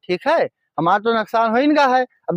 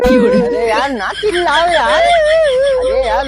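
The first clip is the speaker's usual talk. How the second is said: high, drawn-out plea; panicked pleading; 12 semitones higher, 4 dB louder, slower than usual. Acted. Honey seller begging the son not to shout, panicked plea. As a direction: beg to hush the accuser, voice pitched up.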